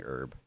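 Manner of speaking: "herb" with the H left off; silent H. Retold or imitated. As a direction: say "herb" as "erb", vowel first. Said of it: "I was pronouncing herb incorrectly".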